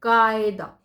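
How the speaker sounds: कायदा with a throaty uvular q; nukta pronunciation. Shown as a demonstration. Teacher reading the word with the nukta, throaty कायदा. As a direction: say कायदा as क़ायदा. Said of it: "इसको का पढ़ना है".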